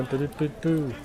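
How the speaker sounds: soft, slow boo-doo-boo filler; absent-minded scat under the breath; idle doo-doo noises. Real, not acted. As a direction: burble softly to yourself while searching. Idle noises while reading the chat.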